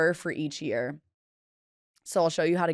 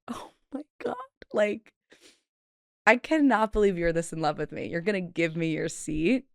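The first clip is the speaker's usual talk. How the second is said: mock swoon. Retold gushing at stranger.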